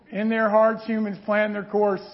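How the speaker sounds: too fast. Shown as a demonstration. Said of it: "Whoa, I went too fast".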